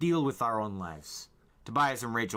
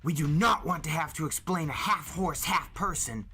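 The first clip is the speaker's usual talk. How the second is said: higher, louder urgent plea; 9 semitones higher, 4 dB louder than usual. A narrator's reading. Jake urging the group before the police arrive. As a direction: press them to hurry.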